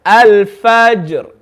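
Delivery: al-fajr with a bounced j; qalqala on jim. Shown as a demonstration. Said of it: "read it with qalqala".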